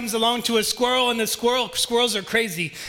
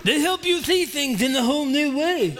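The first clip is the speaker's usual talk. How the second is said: higher, hammed-up toad voice; Grumpy Toad voice; 6 semitones higher than usual. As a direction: play the toad with a laugh in it. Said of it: "That's my Grumpy Toad".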